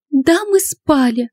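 high, slow cry, close to tears; shouted confession. A narrator's reading. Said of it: "крикнула она".

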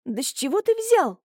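high, almost shrieking protest; near squeal. Acted. Julia protesting through tears, high near squeal. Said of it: "почти взвизгнула Юля".

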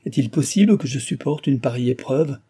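a lover's desperate outburst; anguished exclamation. Acted. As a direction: cry it out in despair. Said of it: "s'écria Delville".

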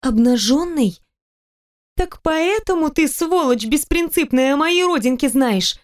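high, slow, indignant accusation; outraged. Acted. Heroine realizes he saw her naked, high outraged slow words. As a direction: spit out the insult.

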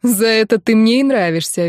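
ordinary delivery, nothing marked

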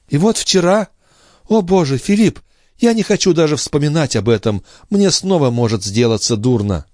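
put-on young sister making light of her illness; sister's voice. A narrator's reading.

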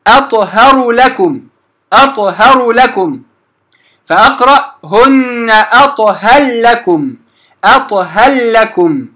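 slow أطهر لكم with the ra merged into a doubled lam; slow Quranic demo of أطهر لكم; idgham demo. Shown as a demonstration. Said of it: "مثال آخر".

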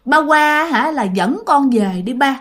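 a hint of a child's ghost pleading, slowing at the end; ghostly child calling. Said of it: "nghe tiếng nó kêu rằng á là". (giọng hồn đứa trẻ gọi ba, nhẹ nhàng)

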